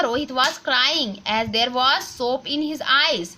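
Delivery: put-on slow, careful textbook reading for children; reading aloud slowly. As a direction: read each word clearly for the class. Reads the exercise sentence. (बच्चों के लिए धीरे-धीरे पढ़ना)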